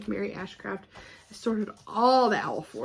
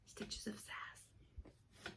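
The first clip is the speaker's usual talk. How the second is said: very slow whispered repeat; 非常缓慢地轻声耳语; 22 dB quieter, much slower than usual. Real, not acted.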